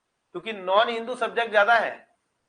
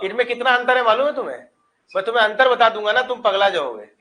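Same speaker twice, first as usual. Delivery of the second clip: louder and fast, pushing the point hard; fired-up argument, quickening; heated insistence; 3 semitones higher, 6 dB louder than usual. Real, not acted. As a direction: press him, you know better. Heated argument over sect differences.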